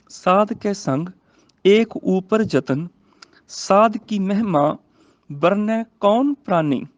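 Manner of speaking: slow, measured verse reading; scripture recitation. Shown as a demonstration. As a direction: recite slowly, phrase by phrase. (ਹੌਲੀ, ਠਹਿਰਾਅ ਨਾਲ ਗੁਰਬਾਣੀ ਪਾਠ)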